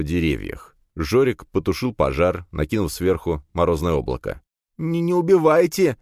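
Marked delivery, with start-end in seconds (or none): 4.8-6.0 higher, louder tearful plea; near tears. A narrator's reading. Captive lad begs the heroes not to kill him, near tears. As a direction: beg for your life, close to crying. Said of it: "чуть ли не заплакал парень".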